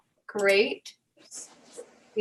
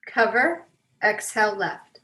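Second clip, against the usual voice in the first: guided breathing. Real, not acted. Leads breathing exercise.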